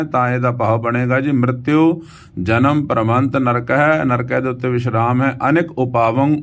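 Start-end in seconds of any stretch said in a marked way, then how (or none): 1.3-4.0 "ਮ੍ਰਿਤਿਉ" drawn to a clear -iu, then a pause; slow model reading, sounding the u ending of "ਮ੍ਰਿਤਿਉ"; final vowel sounded. Shown as a demonstration. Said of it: "ਇਹਦੇ ਔਂਕੜ ਨੂੰ ਵੀ ਆਪਾਂ ਉਚਾਰਨ". 5.5-6.4 "ਅਨੇਕ ਉਪਾਵੰ" ending on a held, rising last word; pause after phrase. Shown as a demonstration. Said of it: "ਉਪਾਵੰ ਤੇ ਥੋੜ੍ਹਾ ਰੁਕਣਾ ਹੈ".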